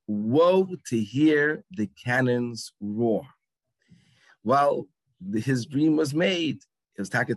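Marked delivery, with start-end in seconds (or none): 0.1-3.3 slow, grand stage declamation; dramatic line reading. Retold or imitated. Producers giving the actor his line, slow theatrical reading. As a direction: stretch out each word like a Broadway line.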